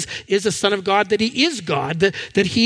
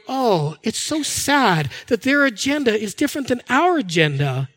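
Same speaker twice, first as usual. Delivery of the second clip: higher, sing-song mock sanctimony; hammed-up holier-than-thou pity; mock pious pity; 3 semitones higher than usual. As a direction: lampoon a pious sigh over others. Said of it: "they're going".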